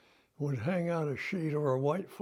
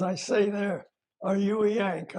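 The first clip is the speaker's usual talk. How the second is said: imitated English accent, slightly raised voice; 4 semitones higher, 4 dB louder than usual. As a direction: lightly put on an English accent. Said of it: "with a very English voice, accent".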